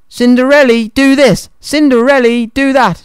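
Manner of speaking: high, sing-out mouse voice; high-pitched mock nagging; mimicked orders. A narrator's reading. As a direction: parrot the bossy commands up high.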